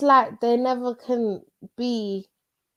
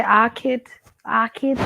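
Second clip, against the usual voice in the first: Scouse phrase; slower than usual. Retold or imitated. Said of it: "he always used to say".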